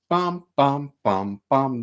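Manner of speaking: each bum punched evenly; strong beats. Shown as a demonstration. Teacher chanting bum bum to show two strong beats. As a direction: hit every bum as a strong beat. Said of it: "two big strong beats".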